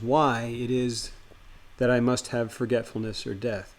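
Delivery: measured, literary first-person reading; deliberate horror-tale narration, falling at phrase ends; story narration. A narrator's reading. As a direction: read it as a solemn written confession. Reads Lovecraft story aloud.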